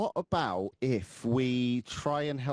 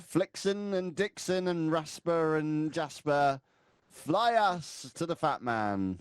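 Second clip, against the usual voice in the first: slow Santa-style command; 4 semitones higher, much slower than usual. Acted.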